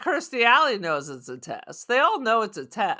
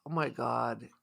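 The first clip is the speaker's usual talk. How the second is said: whisper; 10 semitones lower, 11 dB quieter than usual. Real, not acted. Reacting to Nimoy praise.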